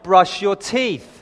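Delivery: lightly acted parent spelling it out to the kids; measured, insistent imitation of a parent; exasperated parent. Acted parent correcting the boys.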